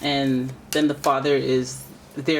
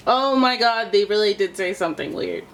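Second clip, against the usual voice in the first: surprised; 5 semitones higher than usual. Real, not acted. Reacting to the card.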